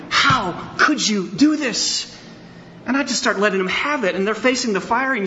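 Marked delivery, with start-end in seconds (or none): 0.1-2.1 put-on furious shout at the boys, drawn out; angry parent yell. Father scolding his sons after the tent fight, furious shout. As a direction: yell it like a father who has lost it. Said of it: "read them the riot act".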